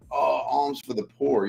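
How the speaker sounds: mock beggar. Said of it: "like a beggar".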